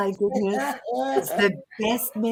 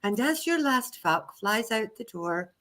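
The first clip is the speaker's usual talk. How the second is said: mock serious meditation voice; 4 semitones higher than usual. Shown as a demonstration. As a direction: try to keep a straight meditation face. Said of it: "I have to do it in my serious voice".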